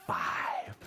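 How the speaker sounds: big high call of five; excited count. Shown as a demonstration. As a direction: leap up on the last number. Counting climax.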